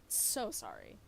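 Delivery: "So sorry" dropped very low in a sarcastic growl; sarcastic "So sorry" in a deep voice; deep mock apology. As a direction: repeat "So sorry" way down low, mocking.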